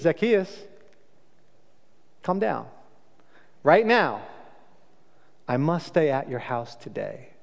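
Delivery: soft, unhurried, kindly call; gentle invitation. Shown as a demonstration. Jesus inviting Zacchaeus down from the tree, gentle and warm. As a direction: invite him down, no judgment. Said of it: "And Jesus doesn't do that".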